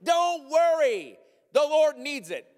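high, loud and slow breezy reassurance; carefree thief explaining himself; mock-calm thief. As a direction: brush off the owner like it's nothing. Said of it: "And you're like".

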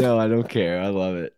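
talking with gum in mouth; chewing gum. Real, not acted. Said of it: "I have gum in my mouth".

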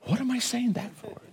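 amused. Retold or imitated. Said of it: "I said".

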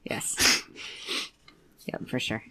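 breathy unvoiced whisper. Real, not acted. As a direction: whisper it softly. Whispered agreement.

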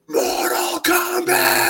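long, high-pitched commercial-style yell; imitated shout. Kid in the commercial shouting into an empty street, drawn-out yell. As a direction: stretch it out like a battle cry. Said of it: "he just shouts".

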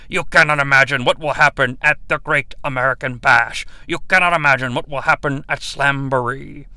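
low booming promo announcer voice, lightly done; announcer impression. Mocking the commercial voiceover guy with a light booming promo read. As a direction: boom it out like a wrestling ad voiceover. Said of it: "voiced over by the same guy that does the commercials".

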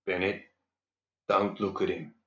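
hushed, quiet warning; whispered. Acted. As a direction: whisper it urgently. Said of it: "Jeb whispered".

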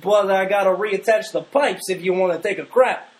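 put-on high, loud goofy Canadian accent. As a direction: play a gouging plumber with a Canadian accent. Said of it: "Stop with the Canadian accent".

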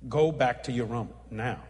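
low, firmer repeated command; the Lord. Retold or imitated. The Lord insisting the preacher leave at once, low and firm. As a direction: press the order home, landing on NOW. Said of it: "I heard the Lord say".

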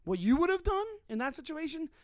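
proud firm takedown; firm shutdown. Retold or imitated. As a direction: put him in his place slowly. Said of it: "the moment that I was so proud of".

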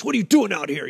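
demonstrating a harsh challenge; mock-harsh question, as the wrong voice. Shown as a demonstration. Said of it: "It's not in a harsh".

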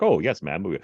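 lightly imitated proper British gent; a touch of traditional British politeness; mock-proper British accent; classy British accent. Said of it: "classy or traditional British accent".

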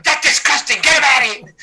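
high, loud, disgusted mother. Retold or imitated. Mother at the casino, disgusted by the request, loud and high. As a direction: recoil like an offended mother.

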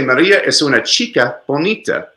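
"chica" carries the emphasis of the statement; Spanish statement with "chica" stressed. Shown as a demonstration. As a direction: lean on the noun "chica". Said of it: "The emphasis is on the noun".

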